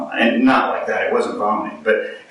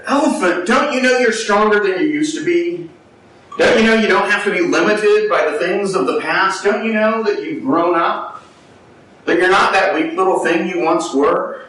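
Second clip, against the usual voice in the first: impassioned plea; 6 semitones higher than usual. Retold or imitated. Englishman pleading with the elephant, high heartfelt appeal. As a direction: urge the elephant to see it has grown.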